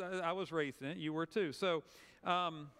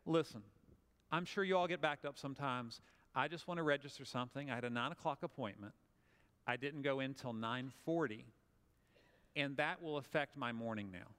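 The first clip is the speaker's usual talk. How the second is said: polite and professional; 3 semitones lower than usual. Shown as a demonstration. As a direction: lay it out gently and reasonably. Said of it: "politely and professionally say".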